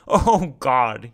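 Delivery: loud, drawn-out exclamation; amused exclamation. A narrator's reading. Man amused at being taken for Stony, loud exclamation. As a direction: burst out loudly in amusement. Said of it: "He laughed".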